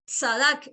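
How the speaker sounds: "Sadak" with a clear ts at the start, rising; careful pronunciation. Shown as a demonstration. Pastor warning listeners the recording may drop the ts sound. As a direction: spell out "Sadak" so the t and s are both heard. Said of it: "lo estoy pronunciando con una T y una S".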